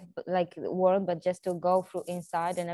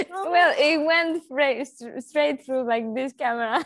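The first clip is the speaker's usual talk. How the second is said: tearful; 4 semitones higher, 4 dB louder than usual. Real, not acted. Guest overcome by the host's words, speaking through tears. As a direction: voice breaking with real tears, higher. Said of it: "I love that you're so emotional".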